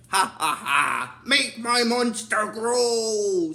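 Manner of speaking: slow villain laugh into a drawn-out command; stretched, booming-style villain incantation; Zed. Retold or imitated. Imitating Zed laughing as he grows his monster, slow command. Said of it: "Zed starts laughing and he's like".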